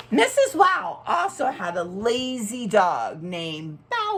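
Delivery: bright, lively storybook voice; reading to children. Acted. Teacher reading a picture book to children, lively. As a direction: read it out like for a class of kids.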